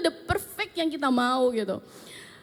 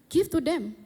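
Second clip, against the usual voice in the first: higher, brief imitated instruction; retold command; 5 semitones higher, slower than usual. Retelling the Holy Spirit's prompt at lunch, commanding. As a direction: give it as a sudden prompt.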